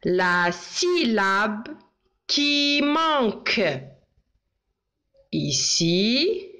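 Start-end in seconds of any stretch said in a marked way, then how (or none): 0.0-3.6 slow dictation. Shown as a demonstration. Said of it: "J'écris".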